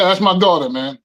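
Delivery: usual speaking voice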